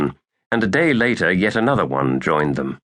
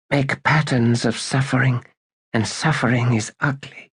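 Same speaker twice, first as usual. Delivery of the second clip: Badal half-whispering; 5 semitones higher than usual. A narrator's reading. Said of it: "she whispered".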